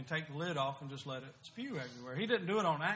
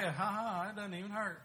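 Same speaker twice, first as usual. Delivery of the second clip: a light hint of mocking sass; disrespectful mock; 4 semitones higher than usual. Son taunting father after a spanking, mildly mocking. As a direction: toss it off like a cheeky kid laughing it off. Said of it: "in a disrespectful way".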